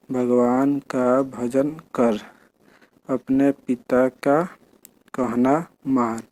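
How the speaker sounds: put-on a teacher modelling reading for a child; reading aloud slowly. Shown as a demonstration. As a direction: read each short sentence slowly and clearly, word by word. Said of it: "तो ऐसे पढ़ना है".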